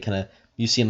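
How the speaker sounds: ordinary delivery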